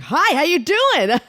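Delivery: high, drawn-out overfriendly greeting; mock super-friendly park guy; obnoxiously nice. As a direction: gush it slowly in a put-on high voice. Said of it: "obnoxiously nice".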